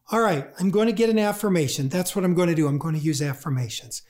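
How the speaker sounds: hurried self-talk, falling away at the end; brisk mock resolve. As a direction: talk yourself into it quickly. Acting someone resolving to use affirmations.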